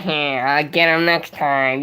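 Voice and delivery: slow, lightly nasal cartoon-villain whine; a hint of a sneaky cartoon baddie, drawn out. Mocking a pundit as a cartoon villain, slow and lightly nasal. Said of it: "villain cartoon characters with the nasally voice".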